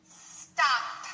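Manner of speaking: "Stop" with a clearly released P and a puff of air; a teacher modelling "Stop" for students to repeat; model final P. Shown as a demonstration. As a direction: say "Stop" slowly so the P pops. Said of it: "We're gonna start with stop".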